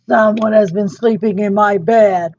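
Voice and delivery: Papa Bear finds his bed used; bellowing Papa Bear. Acted. Papa Bear in the bedroom, light bellow. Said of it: "Papa Bear bellowed".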